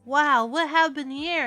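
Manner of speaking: hammed-up shocked officer; voiced cop. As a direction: exclaim it like a cop surveying the scene. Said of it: "the cops come in and they're like".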